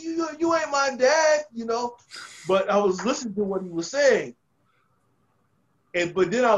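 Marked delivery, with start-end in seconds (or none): 0.0-1.4 higher, slow, louder defiant jab; rookie's imagined comeback to the veteran; defiant inner retort. Retold or imitated. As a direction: draw it out like a stubborn kid. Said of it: "In my mind".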